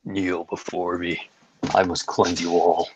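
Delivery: lightly voiced Thanos menace; booming arrogant alien overlord. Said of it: "And Thanos".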